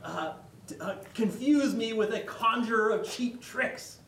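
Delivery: high, loud wizard roar; Gandalf yelling. Retold or imitated. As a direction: thunder it down at the hobbit. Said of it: "Gandalf yells at him".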